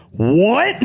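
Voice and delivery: high, loud, laughing "What?"; confused what. Retold or imitated. Lost new student in Spanish class, loud laughing surprise. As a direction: blurt it out, totally lost. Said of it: "And I went".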